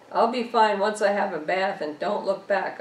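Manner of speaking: trying hard to sound fine and convincing; forced conviction. Acted. Woman reassures the officer she'll be fine, forcing conviction. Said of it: "trying to put some energy, some conviction into my words".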